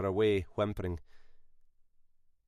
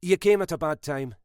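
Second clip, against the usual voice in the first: terse; 6 semitones higher, 4 dB louder than usual. A narrator's reading. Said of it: "reply was terse".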